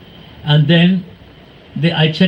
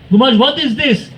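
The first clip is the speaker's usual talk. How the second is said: retold shouting; 6 semitones higher than usual. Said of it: "Then I start shouting".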